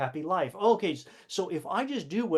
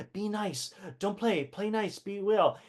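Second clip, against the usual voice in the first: put-on higher, singsong parent lecturing a child; lightly voiced parent, pitched up and preachy; mock parent scolding; 5 semitones higher than usual. Adult drilling a child to be nice, higher mock voice. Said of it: "you can hear the indoctrination".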